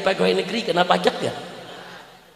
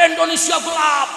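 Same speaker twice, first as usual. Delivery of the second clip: imitated protest shout; 7 semitones higher than usual. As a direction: call it out like students at a protest. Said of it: "Mahasiswa teriak".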